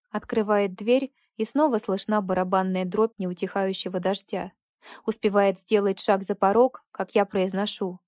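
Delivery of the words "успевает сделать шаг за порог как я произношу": plain reading voice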